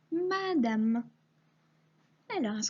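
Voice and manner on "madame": "madame" high, in drawn-out syllables; word called out. Shown as a demonstration. Teacher calling a word to find, slow high syllables. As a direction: repeat "madame" slowly and higher. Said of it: "chercher le mot madame".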